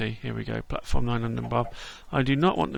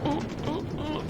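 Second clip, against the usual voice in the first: thrilled ooh; 13 semitones higher, 7 dB quieter than usual. Real, not acted. Twisting roller coaster ride.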